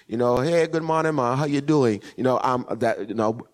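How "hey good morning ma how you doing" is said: lightly put-on Bajan greeting; Bajan accent. Shown as a demonstration. Preacher showing the congregation a Barbados greeting, light Bajan accent. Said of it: "that kind of accent".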